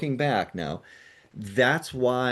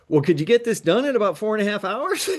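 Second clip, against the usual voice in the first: higher, laughing through a cheeky ask; laughing question; 8 semitones higher, 3 dB louder than usual. Retold or imitated. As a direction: giggle while bargaining. Retelling his cheeky question.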